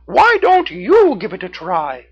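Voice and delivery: high, bright cartoon raccoon. A narrator's reading. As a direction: pitch way up for a friendly raccoon. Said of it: "Red the Raccoon suggested".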